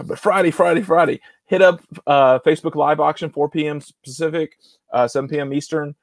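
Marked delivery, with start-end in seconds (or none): 0.2-1.8 raised-pitch mock arena announcer; half-successful monster truck promo hype. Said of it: "can't sound like the monster truck guy".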